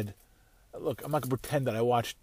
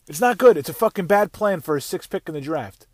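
angry rant; 3 semitones higher, 6 dB louder than usual. Real, not acted. Ranting about the draft pick.

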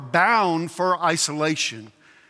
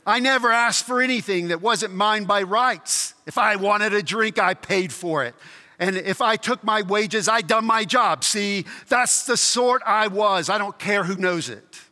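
indignant self-justifying ghost, pitched up on key claims; rough ghost; 3 semitones higher than usual. Acted. Ghost defends his life to heavenly friend, rough and indignant. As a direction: plead your record like an affronted chap. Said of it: "These are two very rough characters".

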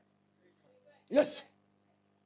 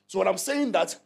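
rising into a sung preaching shout; preacher breaking into song; 2 semitones lower than usual. Real, not acted. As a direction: proclaim it over the congregation, half singing. Preacher's rising declaration to congregation.

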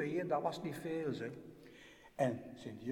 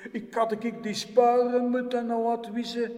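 self-reproach; 8 semitones higher, 8 dB louder than usual. Acted. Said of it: "dacht die waakengel".

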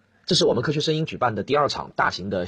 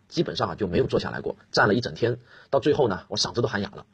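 hoarse voice. Real, not acted.

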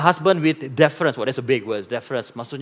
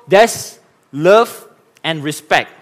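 slow, drawn-out and a touch louder; slow emphatic; 4 dB louder, much slower than usual. Shown as a demonstration. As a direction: lean on each word slowly. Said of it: "Let me repeat myself".

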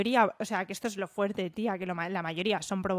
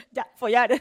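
deliberate cursing; 2 semitones higher, 7 dB louder than usual. Pretend. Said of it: "lo voy a hacer desde ya".

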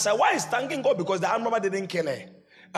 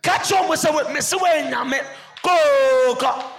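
mock panic; 7 semitones higher, 8 dB louder than usual. Acting panicked chatter on plane.

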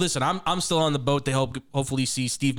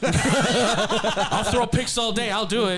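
put-on old man voice; 7 semitones higher, much slower than usual. Aging Dak threatening, laughing.

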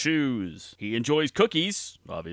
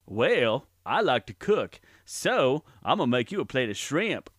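Forrest Gump voice. Acted. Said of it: "Please welcome Forrest Gump".

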